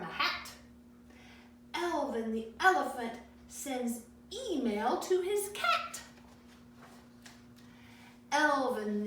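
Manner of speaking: put-on paced read-aloud for children, pausing between pages; a gentle picture-book read-aloud; storybook reading. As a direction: read each page to the kids.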